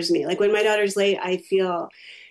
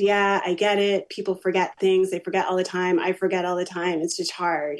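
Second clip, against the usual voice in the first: calm retold reassurance; 2 semitones lower than usual. Mother forgiving her sorry daughter over the ticket, calm retold reassurance. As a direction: let it settle down gently by the end.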